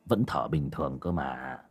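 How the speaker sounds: low, soft, slow hesitant murmur; hushed uncertain. Acted. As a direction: speak low while listening for breath. Father listens close to son.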